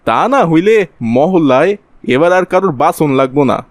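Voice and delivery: ordinary talk, nothing marked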